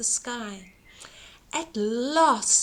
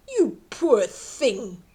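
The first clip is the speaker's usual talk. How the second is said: mild boom; slower than usual. Acted. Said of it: "boomed the giantess".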